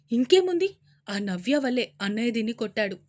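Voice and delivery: loud angry outburst. Acted. Aunt blaming Navya to mother, angry. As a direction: blurt it out bitterly. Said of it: "కోపంగా అన్నారు".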